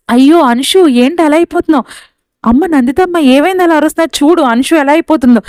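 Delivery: alarmed. Acted. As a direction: panic over the sick child. Child's asthma attack, panic. (ఆందోళనగా, ఎత్తైన స్వరంతో)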